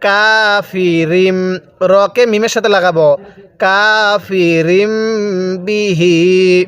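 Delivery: কাফিরিম বিহি slow, the মিম joined and hummed; slow tajweed recitation; Quranic recitation. Shown as a demonstration. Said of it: "বিহি শব্দটা".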